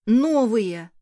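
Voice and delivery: pleased exclamation. Acted. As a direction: show off the new hat happily. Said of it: "Довольно произнёс".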